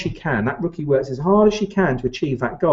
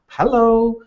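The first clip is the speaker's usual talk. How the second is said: high, bright put-on greeting; mock cheery hello; 9 semitones higher than usual. Owner greeting a new recruit, a high mock hello. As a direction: chirp a fake friendly hello.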